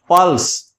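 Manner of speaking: "पल्स" with the weight on प; stress on प. Shown as a demonstration. Teacher giving students an example of syllable stress, stress on प in "पल्स". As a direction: lean on the opening प of "पल्स". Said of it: "यहां प के ऊपर बलाघात है".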